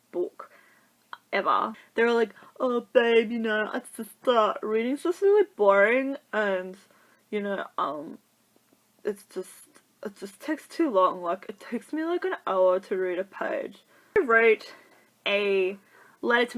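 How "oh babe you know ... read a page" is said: a hint of a dim, bored boyfriend. Boyfriends making excuses to her for not reading, mock bored.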